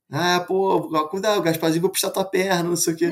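lightly mocking playful warning; teasing dad. Dad kidding his scared son about a ghost, mildly teasing. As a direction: imitate a dad jokingly spooking his kid. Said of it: "E meu pai zoando".

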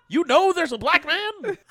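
very high, loud, incredulous; mock shocked question. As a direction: gasp it out like a scandalized snob. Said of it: "acted question".

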